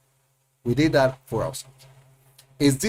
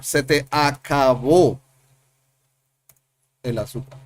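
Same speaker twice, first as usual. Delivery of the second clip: slow demo. Shown as a demonstration. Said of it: "So the verb has to be".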